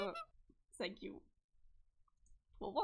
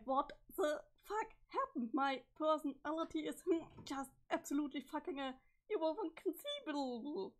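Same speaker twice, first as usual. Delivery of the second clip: dazed character voice; 3 semitones higher than usual. Acted. Voicing a confused character.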